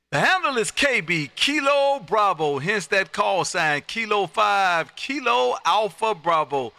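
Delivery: Kilo Bravo spelled slowly, each word set apart; slow spelled call sign. Shown as a demonstration. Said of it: "help you out with this call".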